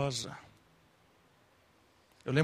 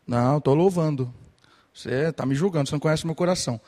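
louder, defensive mock protest; indignant protest; 5 dB louder, much faster than usual. Worshipper protesting to the preacher, indignant and loud. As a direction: snap back like a worshipper who feels judged. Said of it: "aí você tá lá assim".

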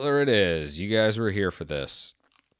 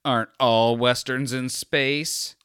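smug douchebag; 4 semitones higher, 4 dB louder, slower than usual. Retold or imitated. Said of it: "I'm that douchebag also that's like".

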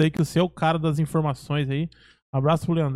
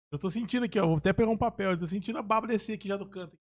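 talking with anesthetized mouth; slurring after the dentist; numb mouth; 7 dB quieter than usual. Real, not acted. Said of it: "Ele acabou de vir do dentista".

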